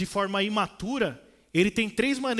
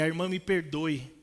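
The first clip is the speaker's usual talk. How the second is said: gentle apology; 4 semitones lower than usual. Retold or imitated.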